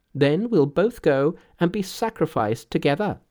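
high, emphatic Monkey giving orders; bossy Monkey. A narrator's reading. Monkey telling the father how to save her, brisk and assured.

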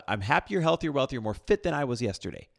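forced enthusiasm through gritted teeth. Retold or imitated. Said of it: "she really hates me".

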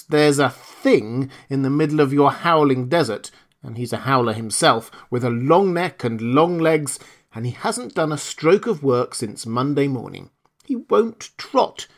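indignant horse telling tales; an aggrieved horse complaining; tattling horse. Acted. Horse tells tales on camel.

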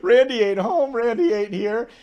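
retold joke said through laughter; laughing mock denial. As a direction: crack up while saying it, as him. Laughing retell of Moss.

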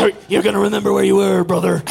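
gruff hype-man promo, a hint; wrestling promo voice. Acted. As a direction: growl it like a wrestler cutting a promo. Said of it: "wrestling promo".

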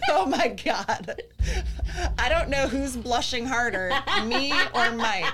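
embarrassed giggly talk; laughing. Real, not acted. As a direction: laugh through it, a bit flustered. Embarrassed after a cheeky joke.

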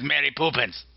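Poppins said as "POO-pins"; "Poppins" turned into "Poopins"; deliberate mispronunciation. Pretend. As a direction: say Poppins with an "oo" in the first syllable. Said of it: "If you pronounce it the way I pronounce it".

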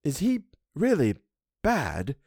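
a servant dreading the answer; Missus Gross voice. A narrator's reading. Housekeeper asks about Miles, fearful.

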